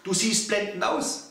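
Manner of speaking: a mirror gushing over how you look, lightly voiced; mock delighted mirror. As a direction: gush like an amazed mirror. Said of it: "Der Spiegel schreit".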